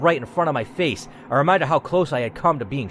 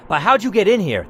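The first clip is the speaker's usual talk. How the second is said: armed man asking; 5 semitones higher than usual. Acted. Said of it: "The man asked".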